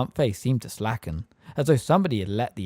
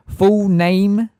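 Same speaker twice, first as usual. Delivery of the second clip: high, loud, curt; loud demand; 10 semitones higher, 10 dB louder than usual. A narrator's reading. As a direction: call it out at the witness. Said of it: "said Fudge loudly".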